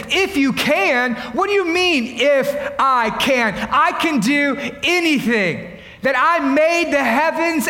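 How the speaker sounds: a hint of Jesus correcting the father, slow; slow, emphatic If; Jesus, incredulous. Preacher voicing Jesus to the father, lightly emphatic. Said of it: "Jesus says".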